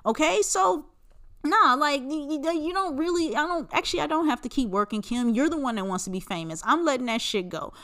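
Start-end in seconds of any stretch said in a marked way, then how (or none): 1.4-6.6 higher, lightly voiced Rob brushing Kim off; imitating Rob. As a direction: play Rob shrugging off his sister's nagging. Voicing Rob answering Kim.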